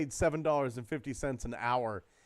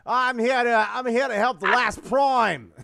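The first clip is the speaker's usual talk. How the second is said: loud, high Transformer toy voice; toy robot voice; 8 semitones higher, 9 dB louder than usual. Pretend. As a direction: boom it out like a talking action figure. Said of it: "hear the sound chips in some of the Titan class figures".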